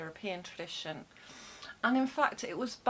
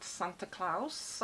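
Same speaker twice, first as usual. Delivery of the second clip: German accent; 2 semitones lower, slower than usual. Shown as a demonstration. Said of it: "which is my German accent".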